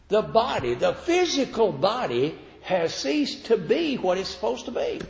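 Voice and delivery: high-pitched, insistent sermon delivery; emphatic preaching. Real, not acted. Preacher explains death to the congregation, emphatic preaching.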